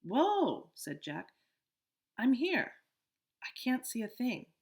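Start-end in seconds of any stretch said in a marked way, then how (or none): 0.0-0.7 surprised. Acted. Relief in darkness. 2.2-4.5 calling out. Acted. Calling in the dark.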